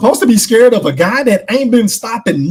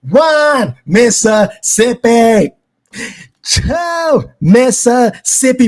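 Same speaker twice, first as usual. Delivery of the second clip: mock slow count; 3 semitones higher, much slower than usual. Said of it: "you motherfuckers be playing".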